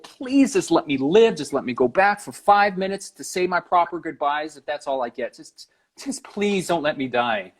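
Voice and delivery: acted-out plea, starting high and easing down; beg, drawing out the "please", mildly desperate; retold pleading. Man begging to live for goodbyes, retold pleading. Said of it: "I just started pleading".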